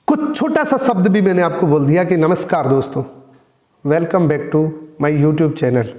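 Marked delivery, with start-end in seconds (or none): 2.2-5.8 level, unexcited hello to viewers; low-energy greeting. Shown as a demonstration. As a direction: say the intro with no lift. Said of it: "लेकिन tone change है।".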